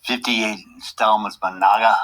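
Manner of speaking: lightly voiced puppet sidekick; a hint of a goofy puppet chiming in. Puppet sidekick greeting host, lightly voiced puppet.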